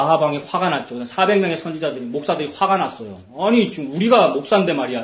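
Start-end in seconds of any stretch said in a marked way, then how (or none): 3.4-5.0 louder, mildly angry imitation; acted huffy objection; mock indignation. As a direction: protest as an offended pastor. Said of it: "이러면서 막 화를 내면서".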